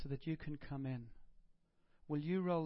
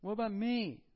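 plaintive cry; 5 semitones higher, 5 dB louder than usual. Pretend. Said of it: "Anybody felt like that?".

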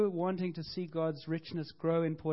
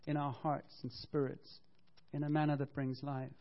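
prayer example. Shown as a demonstration.

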